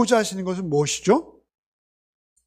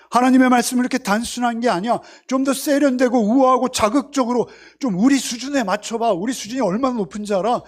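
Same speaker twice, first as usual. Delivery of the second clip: higher-pitched scoffing, lightly acted; haughty mocking; 4 semitones higher than usual. Self-styled sophisticates scoff at Isaiah's simple preaching, mildly haughty mockery. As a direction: mildly play the superior critic lecturing the preacher. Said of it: "조롱하는 거예요".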